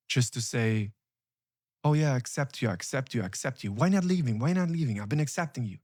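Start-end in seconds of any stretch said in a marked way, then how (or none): 1.8-5.8 fake acceptance. Host letting someone in, then impatiently pushing them to leave, mock insincere. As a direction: pretend to welcome them while rushing them out. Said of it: "Don't do that".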